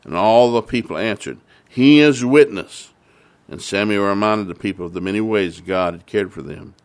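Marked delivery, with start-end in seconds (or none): 1.7-2.9 solemn crowd reply. Acted. People answering in unison.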